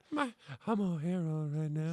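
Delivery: low, rough, drugged-out voice; heron voice. Real, not acted. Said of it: "It's a hair on voice".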